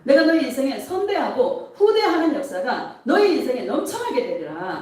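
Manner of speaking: lively prophetic declaration to the congregation; 예수님 음성. Retold or imitated. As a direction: proclaim promises firmly, phrase by phrase. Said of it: "예수님의 음성이 들리는 거예요". (축복을 선포하듯 힘 있게)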